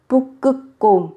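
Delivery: slow Bukkukom, last two syllables with doubled consonants. Shown as a demonstration. Teacher showing learners the doubled consonants, slow Bukkukom with both held. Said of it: "Hai âm tiết cuối các bạn đều gấp đôi phụ âm".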